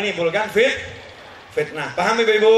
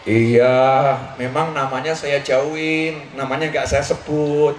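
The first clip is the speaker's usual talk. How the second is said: sly retort; 7 semitones lower, much slower than usual. Retold or imitated. Aisyah answering her husband.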